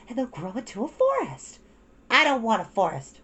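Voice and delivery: put-on high, pleading child voice; two sisters arguing, high; young girls' voices. A narrator's reading.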